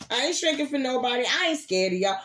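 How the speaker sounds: fast, laughing through the words; laughing defiance. Real, not acted. Defiant reader laughing to viewers about not shrinking. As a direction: laugh it off, brushing everyone aside. Laughs at her own boldness.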